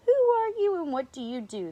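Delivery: high, loud mock lion roar. A narrator's reading. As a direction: roar the question as a storybook lion. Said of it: "the lions roared".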